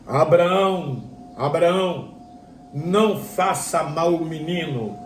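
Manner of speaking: measured, drawn-out call from heaven; lightly voiced heavenly call, words spaced out. Preacher voices heaven stopping Abraham, solemn call. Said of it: "uma voz bradou do céu".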